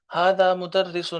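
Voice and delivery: slow teacher demo; slow Arabic reading. Shown as a demonstration. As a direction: model ھذا مدرس slowly and clearly. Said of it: "تلفظ اس کا ٹھیک کر لیں".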